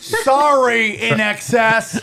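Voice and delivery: high, stretched mock proclamation; governor decree. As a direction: announce a ban like a comic official. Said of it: "You sound like the governor of California".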